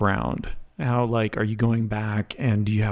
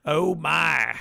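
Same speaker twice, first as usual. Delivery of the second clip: drawn-out Southern belle, pitched higher; 4 semitones higher than usual. Acted. Guest shows the host a voice, Southern belle. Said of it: "it's a Southern Belle".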